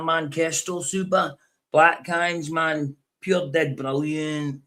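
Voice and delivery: high, drawn-out Glaswegian drawl; hammed-up Glasgow boozer; Glaswegian accent. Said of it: "I put on a Weedy accent".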